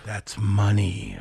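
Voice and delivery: slow, guttural delivery; deep guttural voice. Real, not acted. Co-host approving the must-see booking, deep guttural voice. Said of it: "you said it with a deep guttural voice".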